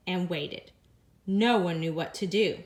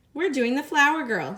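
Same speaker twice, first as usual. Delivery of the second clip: louder, higher, beaming; proud and excited; 4 semitones higher, 5 dB louder than usual. Acted. Lily proudly telling guests her dance, excited. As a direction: show off the dance name.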